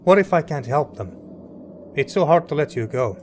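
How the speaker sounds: fighting back tears while reading; emotional. Real, not acted. Father saying goodbye to his son, choked up. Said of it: "I'm getting too emotional here".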